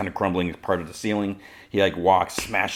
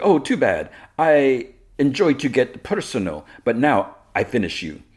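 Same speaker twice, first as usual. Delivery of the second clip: gloating villainess; 6 semitones higher, 3 dB louder than usual. Retold or imitated. Villainess to her captured hero, gloating. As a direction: toy with a beaten foe.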